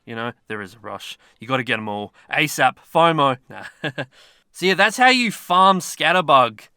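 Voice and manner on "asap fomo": mock urgency. Joking about the rush.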